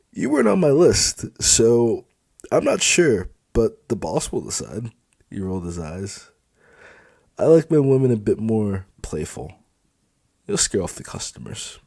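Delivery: high, loud, dismissive; scornful, then a dropped aside; sneering supervisor. Acted. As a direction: brush her off with a smirk. Felix sneers at her.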